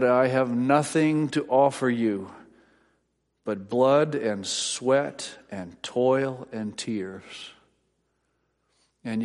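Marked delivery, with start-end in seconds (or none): 0.0-7.5 solemn rallying quote. Retold or imitated. Preacher quoting Churchill rallying England, slow and solemn. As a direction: quote Churchill slowly, weighing each word. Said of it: "at one point he said".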